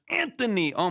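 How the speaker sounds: sudden high excited shout of a name; shrieking jackpot winner. Real, not acted. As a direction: yelp the name like you just won. Sudden big donation arrives.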